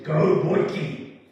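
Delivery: a proud father cheering his son on; dad calling out. Retold or imitated. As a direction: call the boy's nickname across the field. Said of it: "his dad's voice said".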